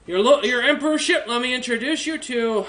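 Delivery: bow and scrape as you announce them; fawning servant. Acted. Welf Junior presents guests to the emperor, fawning. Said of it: "he goes".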